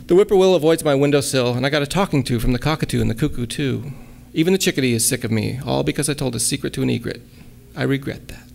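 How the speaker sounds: playful rhyming recital; light sing-song verse; poem reading. Acted. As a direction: lean into the rhymes, light and bouncy. Reads her own poem.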